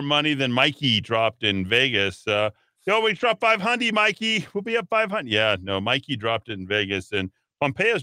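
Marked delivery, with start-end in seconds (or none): 2.9-5.3 much higher "Yo" bro voice, hammed-up; gambler buddy voice. Host imitating a gambling buddy in a high, hammed-up bro voice. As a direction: play the overeager Vegas gambler egging Mikey on.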